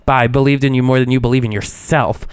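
mildly theatrical recital; lightly played-up open letter; dramatic reading. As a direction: read it out with mock indignation. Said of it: "I'm gonna do a dramatic reading".

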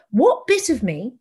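rising mock amazement, ending high; incredulous, mocking the viewer's reaction; sarcastic disbelief. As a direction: scoff at the ad as if sold on it. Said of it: "And you go".

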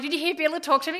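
high, loud, excited gushing; giddy schoolgirl. Retold or imitated. Fan asking husband about the drummer, giddy. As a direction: bubble over like a starstruck fan. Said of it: "You're like a giddy schoolgirl".

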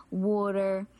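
slight South Philly accent; South Philly street talk, lightly done. Shown as a demonstration. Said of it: "my South Philly accent".

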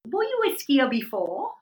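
imitated South African doctor's careful question; South African accent. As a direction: ask it slowly in a put-on South African accent. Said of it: "he just says to me in his accent".

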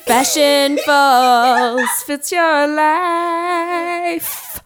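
slow, sultry perfume ad read. Acted. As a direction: purr it out like a perfume commercial. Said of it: "And it's a sultry voice".

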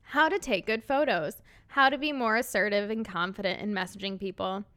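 plain Midwest accent, no imitation; own Midwest accent. Shown as a demonstration. Quoting her husband in her own Midwest accent. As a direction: read it out in your natural Midwest accent. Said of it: "say it in my terrible Midwest accent".

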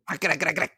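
rapid-fire croaked "gra" sounds; mimicked choking noises. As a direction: imitate a throaty rattling noise. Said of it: "You're like".

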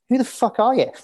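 laughing retort. Retold or imitated. Retelling his reply to the stranger, laughing high. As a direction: toss it off laughing at the absurdity.

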